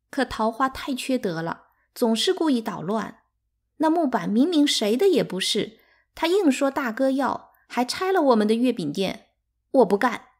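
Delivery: high, aggrieved outburst; rising, loud childish complaint; indignant child. A narrator's reading. Sister indignantly protests to mother.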